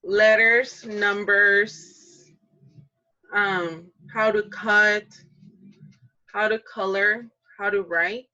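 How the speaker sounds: put-on slow, eager little kid answering; child pupil voice. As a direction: play a kindergartner naming things. Adult plays kindergarten pupil answering.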